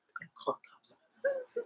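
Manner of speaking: hushed, high, strained squeal of anger; mock mad wife. Wife so mad about cops being called, mock anger. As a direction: imitate a furious wife in a small strangled voice. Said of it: "like, so mad".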